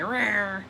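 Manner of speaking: mock clawing "rawr"; playful cat snarl. Teacher showing someone reacting with claws out, mock snarl. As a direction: growl a small, playful rawr. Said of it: "the claws come out".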